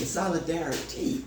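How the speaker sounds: solidarity said low and soft, syllable by syllable; sounded-out solidarity. Shown as a demonstration. Teacher shows the class how solidarity is pronounced, sounding it out. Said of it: "look how you pronounce it".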